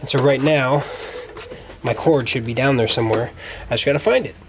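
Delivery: ordinary delivery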